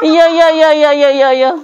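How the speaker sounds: quick run of insistent yeses; pacify them with rapid repeated agreement; urgent placating. Real, not acted. Placating someone crying and protesting. (ngiyani bola-bali kanggo ngeneng-ngenengi)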